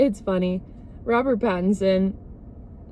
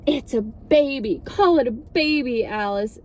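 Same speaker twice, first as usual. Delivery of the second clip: higher-pitched insisting, imitated quarrel; mock indignant; 4 semitones higher than usual. Rosalie arguing with Alice over the baby, mock indignant. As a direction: correct her with hammed-up indignation.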